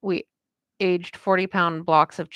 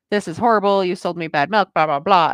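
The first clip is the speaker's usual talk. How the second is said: louder, indignant complaint, half-acted; retold louder customer complaint; mock angry customer; 6 dB louder than usual. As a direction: play the fed-up customer griping about bad milk. Angry customer returning bad milk.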